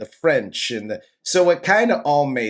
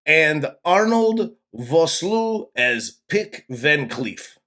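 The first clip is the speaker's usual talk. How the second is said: put-on French accent. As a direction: read the cast list in a silly French accent. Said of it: "doing the entire cast in a ridiculous French accent".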